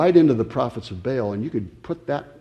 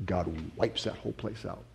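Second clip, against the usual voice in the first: usual speaking voice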